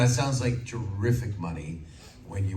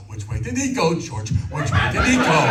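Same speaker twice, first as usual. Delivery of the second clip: higher, louder, cartoon dog voice; cartoon voice at school; 8 semitones higher, 7 dB louder than usual. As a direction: clown it up for classmates. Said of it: "my school going".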